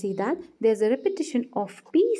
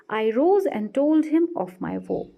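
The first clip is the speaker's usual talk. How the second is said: slow example read; 2 semitones higher, slower than usual. Shown as a demonstration. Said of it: "An example of assonance is".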